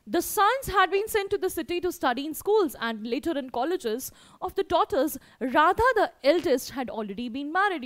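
clear, measured reading voice; story read-aloud. A narrator's reading. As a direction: read the passage out to a class. Reads the story text aloud to pupils.

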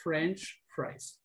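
French fries softly and distinctly separated; corrected pronunciation. Shown as a demonstration. Teacher repeating the correction to a student, careful French fries. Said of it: "recuerda que es French fries".

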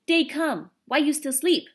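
loud, high-pitched bellowed wake-up call; high, loud indignant holler; shouting. A narrator's reading. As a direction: bawl it out as if across a canyon. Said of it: "the Indian shouted".

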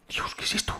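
hushed whispered question; awed whisper. Real, not acted. Gamer seeing something strange, whispering in awe. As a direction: breathe it out in awe.

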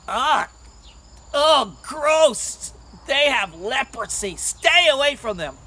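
loud, exaggerated disgust; grossed-out girls. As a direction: recoil like a revolted girl. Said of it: "The young girls would walk by".

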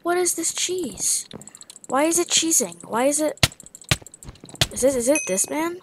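high baffled questioning; confused outrage at the game. Real, not acted. Gamer baffled by an opponent cheesing him.

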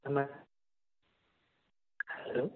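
ordinary talk, nothing marked

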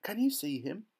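put-on high, eager boy's voice; excited cry. A narrator's reading. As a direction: call out the sighting excitedly. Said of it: "cried Charlie".

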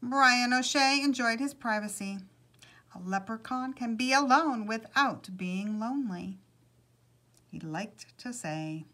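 animated read-aloud storytelling; storyteller's lilting delivery; story narration. A narrator's reading. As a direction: read a picture book aloud with measured pauses.

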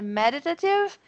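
"meditative" with ME carrying the stress; stress on first syllable. Shown as a demonstration. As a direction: model "meditative" accented at the start. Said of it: "eu não falava desse jeito".

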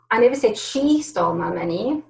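"she" stressed, the line ending on a rise. Shown as a demonstration. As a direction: point at "she". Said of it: "the tone and inflection is different in every single word".

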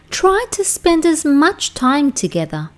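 gentle unvoiced comfort. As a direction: whisper it kindly. Jolly comforts softly.

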